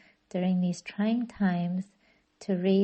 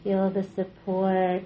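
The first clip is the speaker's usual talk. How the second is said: calm, unhurried meditation guidance with long pauses; measured relaxation-class voice, leaving space between phrases; guided yoga nidra. Real, not acted. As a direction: guide them gently into rest, drawing out phrase endings. Leads yoga nidra practice.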